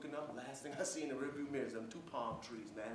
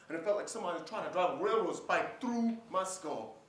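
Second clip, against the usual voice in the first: louder, higher, pained emphasis; intense; 4 semitones higher, 6 dB louder than usual. Acted. Soldier describing his terrible headaches, intense. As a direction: push the agony out with force.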